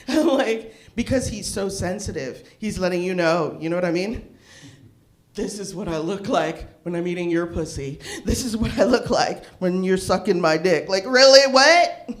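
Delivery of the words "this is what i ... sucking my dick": low, deadpan imitation of a smug guy, laughing through it; mock dating profile guy. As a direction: play the smug online guy, lower and amused.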